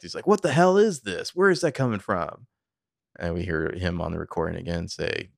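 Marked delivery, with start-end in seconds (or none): 0.3-2.5 acted-out alarm, loud and high; angry, panicked. Podcaster voicing a father running in from his den, angry and panicked. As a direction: burst out in mock angry panic. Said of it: "He's angry and panicked".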